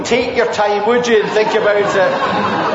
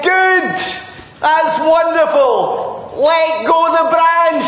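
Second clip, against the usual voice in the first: voice of the Lord; 7 semitones higher, slower than usual. Acted. Lord's voice answers from above.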